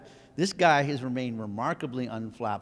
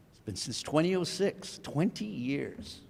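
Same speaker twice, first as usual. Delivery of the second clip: choked up. Real, not acted. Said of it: "Sorry, I'm getting emotional".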